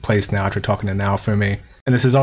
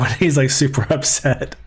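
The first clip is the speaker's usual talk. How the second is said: real laugh in the words, higher pitch; amused, talking through a laugh; 4 semitones higher than usual. Real, not acted. Reviewer tells viewers Foal is upset, laughing.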